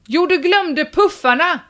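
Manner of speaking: high, hammed-up call out the window; mock shout. Poster reminds departing neighbour from the window, mock shout. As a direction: half-shout a reminder after someone leaving. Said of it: "öppnade jag fönstret och skrek".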